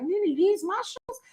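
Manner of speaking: put-on little boy voice. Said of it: "he was like".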